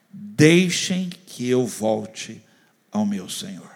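slow, measured Bible reading; calm Bible reading aloud; scripture reading. Acted. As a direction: read the passage carefully to the church.

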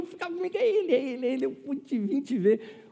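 high, thrilled "é ele, é ele"; excited fan. Retold or imitated. Old lady meeting the pastor in person, thrilled and high. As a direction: gush like a starstruck fan. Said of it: "Eu falei".

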